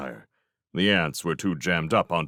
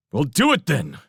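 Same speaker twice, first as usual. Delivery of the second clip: raised, irritated retort; angry snap; 7 semitones higher, 4 dB louder than usual. A narrator's reading. Felix answers the fleeing Railsmith, snapping angrily. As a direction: snap it back impatiently. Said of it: "he snapped angrily".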